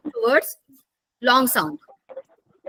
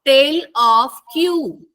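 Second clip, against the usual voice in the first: slow teaching; 3 dB louder, slower than usual. Shown as a demonstration. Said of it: "You can see".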